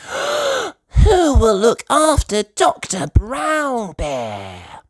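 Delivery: high, slow worried gasp; high anxious question; gasping Peppa. Acted. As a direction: gasp in alarm. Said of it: "gasps Peppa".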